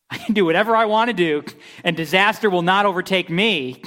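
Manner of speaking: mock the smug sinner who thinks he's safe; arrogant boast. Preacher mocking the arrogant sinners, cocky boast.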